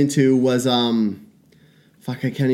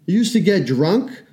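sing-song reminiscing, hammed up; a touch of mock nostalgia; mock nostalgic; 9 semitones higher than usual. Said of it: "you're like".

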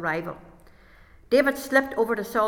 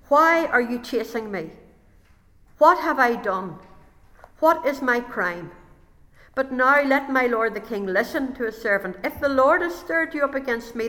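louder, higher earnest plea; pleading David; 3 semitones higher, 4 dB louder than usual. Acted. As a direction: argue your innocence to the king. David's pleading speech voiced.

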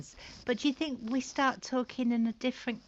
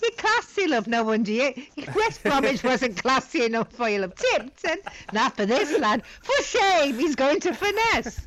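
mock Black Country; 4 dB louder than usual. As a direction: tease him in a broad Black Country voice.

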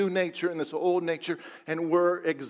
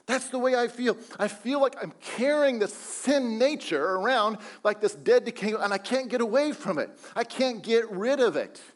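Paul's lament; 5 semitones higher than usual. Acted. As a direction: voice Paul's despair aloud. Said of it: "as he says".

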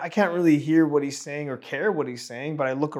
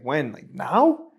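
surprised question; slower than usual. Retold or imitated. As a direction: caught off guard, blurt it out. Surprised by pastor's offer.

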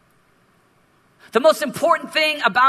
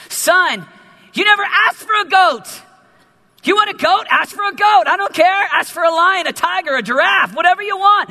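excited father; 5 semitones higher, 3 dB louder than usual. Acted. Father pleading with older son.

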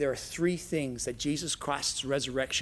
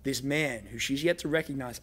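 ordinary delivery

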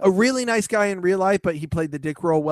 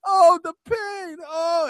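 rising mock pity; 8 semitones higher than usual. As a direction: wail mock pain, climbing higher. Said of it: "he walks over to Troy".

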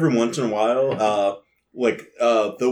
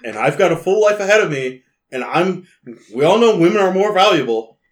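louder, higher note reading; 6 semitones higher, 6 dB louder than usual. Acted. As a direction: read the stone's words with pompous emphasis. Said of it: "The stone says".

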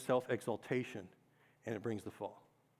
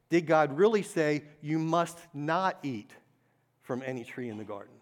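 sly serpent question; 5 dB louder than usual. Acted. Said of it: "The serpent is saying this".

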